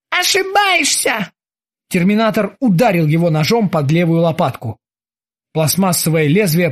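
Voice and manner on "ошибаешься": very high slow sneering retort; icy mock. A narrator's reading. The terminator sneers at Krueger before stabbing. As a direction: savour the correction.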